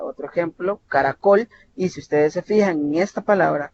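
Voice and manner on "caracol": caracol, final -col raised and louder; stress on last syllable. Shown as a demonstration. Teacher showing an aguda word, last-syllable stress on "caracol". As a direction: hit the end of "caracol". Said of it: "tienen la sílaba tónica en la última sílaba".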